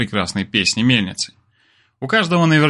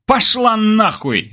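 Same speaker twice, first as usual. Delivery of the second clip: slow, higher rude retort; barked back; 10 semitones higher, much slower than usual. A narrator's reading. Kir barking back at the neighbour woman, slow and higher. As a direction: bark it right back at her. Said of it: "рявкнул ей в ответ Кир".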